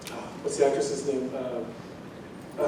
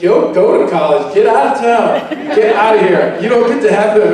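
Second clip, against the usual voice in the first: mock-jealous wife telling off a rival; imitating wife; 3 semitones higher, 3 dB louder than usual. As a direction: send the rival packing, half in jest. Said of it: "my wife and she's like".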